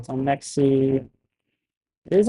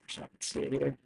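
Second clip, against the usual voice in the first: glitchy robotic mic audio; crackling, robotic broken mic sound. Real, not acted. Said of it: "I sound like a robot".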